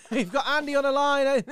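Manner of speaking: slow, loud booming presenter intro; loud slow Scottish-tinged sports anchor; Sky Sports presenter impression. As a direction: announce it big like a TV host. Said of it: "he used to go".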